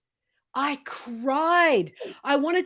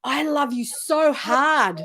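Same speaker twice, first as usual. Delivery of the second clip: slow and heartfelt, meaning every word; sincere; slower than usual. Shown as a demonstration. Telling yourself like a best friend, slow and sincere. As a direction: say it like you truly mean it. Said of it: "You gotta say it like you mean it".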